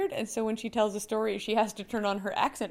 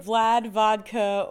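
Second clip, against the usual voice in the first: mock Russian accent; 3 dB louder, much slower than usual. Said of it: "Just say".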